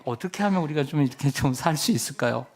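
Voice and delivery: mock-gentle sailors politely ask what to do. Sailors in the storm politely asking Jonah, mild courteous tone. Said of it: "이렇게 점잖게".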